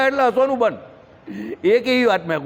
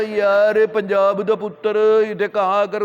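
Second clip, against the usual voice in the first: mock Punjabi; slower than usual. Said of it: "એમ કરીને એવી રીતે ભાષા ચાલુ થાય".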